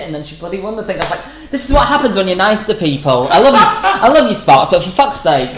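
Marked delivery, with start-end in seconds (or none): 1.5-5.5 loud, higher-pitched jokey protest; mock exasperation. Comic telling off the friend who won the contest, exasperated. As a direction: protest in exasperation, half laughing. Retelling mock rant at the winner.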